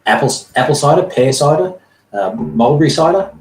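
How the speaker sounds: high, eager barman listing drinks; chirpy halfling offering a menu; high-pitched halfling innkeeper; halfling barkeeper. Acted. Barkeeper lists ciders.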